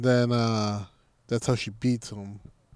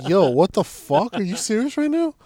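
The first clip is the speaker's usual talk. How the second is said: higher, louder shocked yo; imitating a stunned guy; mock outrage, pitched up; shocked disbelief; 7 semitones higher, 4 dB louder than usual. Guy voiced reacting shocked.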